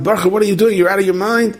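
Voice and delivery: acted-out scolding from a passing coach; retold yell. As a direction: call out in urgent disbelief. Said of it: "the guy yells out".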